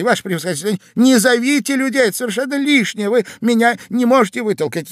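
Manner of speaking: pleading, mildly tearful, high voice; Иван Андреевич. A narrator's reading. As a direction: plead anxiously, a touch of sobbing. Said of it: "рыдая и всхлипывая". (жалобная мольба, чуть плаксиво)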